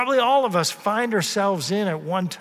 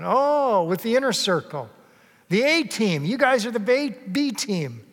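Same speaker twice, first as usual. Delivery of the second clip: higher, mocking sing-song put-down; sneering taunt; 4 semitones higher than usual. Scribes taunting the disciples in a mocking voice. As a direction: rub their noses in being the B team.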